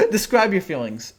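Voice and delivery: chuckling through the words; can't hold back the laugh; giggling while offering comfort. Real, not acted. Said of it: "I'm not trying to laugh".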